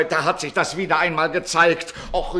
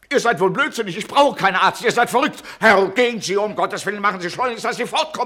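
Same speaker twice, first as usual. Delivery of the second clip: loud, indignant scolding; angry raised voice; angry outburst; 2 semitones higher, 4 dB louder, faster than usual. Acted. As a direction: rage at them to get out. Doctor refuses the doctor angrily.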